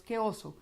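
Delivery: "Qué oso" with slack, unmoving lips; lazy-lipped, embarrassed "Qué oso"; barely moving lips. Shown as a demonstration. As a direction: say "Qué oso" without rounding the mouth. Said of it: "esta falta de movilidad de labios".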